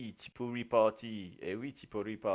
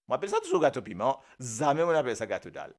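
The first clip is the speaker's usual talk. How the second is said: insistent; 3 semitones higher, 5 dB louder, much faster than usual. Real, not acted. Insisting on the name.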